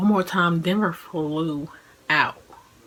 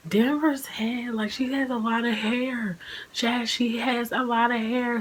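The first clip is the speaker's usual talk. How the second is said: excited report; 5 semitones higher than usual. Retold or imitated. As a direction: draw it out, amazed. Mom seeing baby's head.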